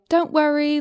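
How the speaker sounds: attempted Irish accent that sounds British. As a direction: try an Irish lilt but drift into British. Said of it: "but that sounds British".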